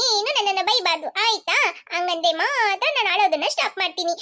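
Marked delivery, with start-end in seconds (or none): 1.9-4.1 crying. Acted. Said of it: "ನೀನ್ ಅಳೋದನ್ನ ಮೊದ್ಲು ನಿಲ್ಸು".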